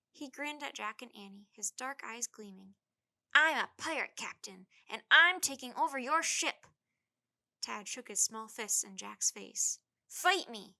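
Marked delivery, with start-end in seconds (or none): 3.3-6.7 pretend pirate. Tad playing pirate. 10.1-10.7 loud, high playful challenge; shouting. A narrator's reading. Tad shakes his fists at Jack, playful loud shout. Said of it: "he shouted".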